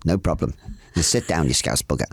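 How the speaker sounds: lightly imitated Indian surgeon's accent. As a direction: tease back in an Indian accent. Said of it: "I tried to do his accent".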